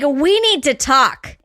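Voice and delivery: understated retold yell, every word stretched. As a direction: draw out the demand, mock-yelling without full volume. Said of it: "I'm yelling at this woman".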